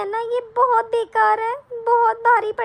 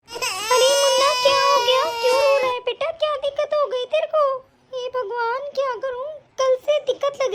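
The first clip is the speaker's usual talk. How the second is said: worried mother; 3 semitones higher than usual. Acted. Mother panics over crying baby.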